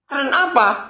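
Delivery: high, puzzled question from the caller. Retold or imitated. Retelling how the Sydney caller asked, puzzled. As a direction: ask it like a baffled friend on the phone.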